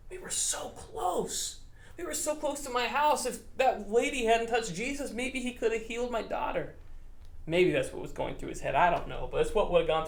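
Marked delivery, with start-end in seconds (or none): 0.1-6.8 despairing father. Retold or imitated. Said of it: "can you imagine thinking".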